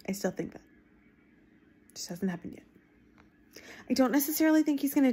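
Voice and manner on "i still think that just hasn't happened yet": under-breath aside. Real, not acted.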